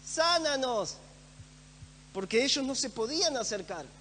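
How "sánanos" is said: higher-pitched mild retold shout; calling from afar. Lepers beg Jesus from a distance, mild retold shout. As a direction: cry out to someone far off, not full force. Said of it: "de lejos le gritan".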